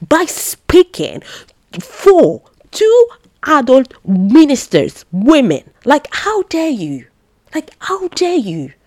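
high, emphatic scolding with drawn-out words; indignant outrage. Acted. Woman confronting a politician for speaking over women, indignant. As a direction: rebuke him in outraged disbelief.

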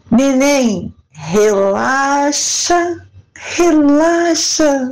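slow, drawn-out, calming reassurance; soothing. Real, not acted. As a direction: stretch out each relaxa gently. Soothing a young friend. (tranquilizando, bem devagar)

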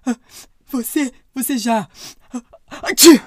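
dwarf interrupted by his own sneeze; sneezy dwarf. A narrator's reading. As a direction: build up to a huge sneeze, then carry on. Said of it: "disse a Tim".

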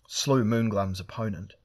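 usual speaking voice

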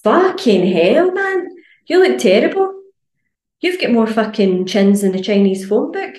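high, loud, hammed-up horror at a friend's photo; mock-appalled cry at your pal's wedding picture; mock horrified insult. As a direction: shriek the insult in exaggerated disgust. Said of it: "and then you're like that".

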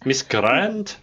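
"Grand" with a rolled R. Shown as a demonstration. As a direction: roll the R in "Grand". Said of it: "Don't forget to roll your R's".

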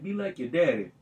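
lightly voiced nagging parent, pushed out loud; mock strict parent.

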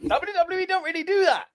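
loud, high-pitched complaint; exasperated outburst. Real, not acted. Host complaining to co-host about WWE booking, exasperated. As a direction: raise your voice sharply in frustration.

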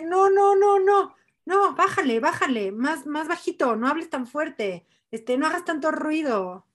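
put-on a parent frantically shushing a noisy child; hushing parent.

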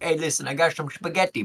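playful pitchman hawking spaghetti; cheerful vendor call; joke man pitch. Shown as a demonstration. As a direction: sell it like the funny guy. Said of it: "I know how to go up to the people and be like".

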